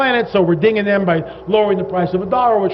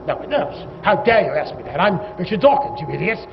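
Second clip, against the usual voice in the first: uppity English Dawkins; 3 dB quieter than usual. Retold or imitated. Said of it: "very English, very uppity".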